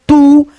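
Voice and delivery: "तू" with the ऊ lengthened; drawn-out long vowel. Shown as a demonstration. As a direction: hold the vowel of "तू" a little. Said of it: "थोड़ा सा खींचना होता है".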